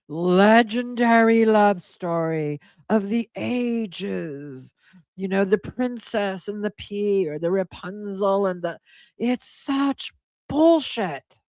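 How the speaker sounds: slow, drawn-out scoff; scornful mockery. Real, not acted. Vlogger scoffing at the romance claim, slowly and with scorn. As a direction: stretch it out, mocking the fairy tale.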